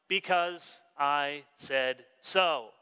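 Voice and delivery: slow, drawn-out parental verdict; parent's famous line. Retold or imitated. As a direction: lay down the law like a tired parent. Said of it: "you give that famous line".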